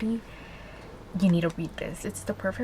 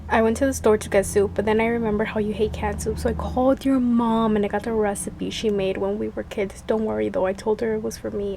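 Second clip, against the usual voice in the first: reading aloud; 3 dB louder than usual. Acted. Reads the hero's text aloud.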